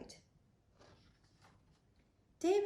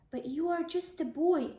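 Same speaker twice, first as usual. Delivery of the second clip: doubtful king; 6 semitones higher, 4 dB louder than usual. Acted. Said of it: "said the king".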